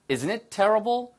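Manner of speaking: slowly, with a rising ending, seeking agreement; slow model line. Shown as a demonstration. Teacher models the phrase for students, slow and rising. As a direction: draw it out for the class. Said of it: "이미 끔찍하다고 생각하는 거죠".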